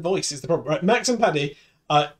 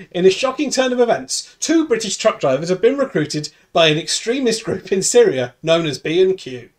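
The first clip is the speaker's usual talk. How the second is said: news anchor. Acted. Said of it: "I will also be news anchor".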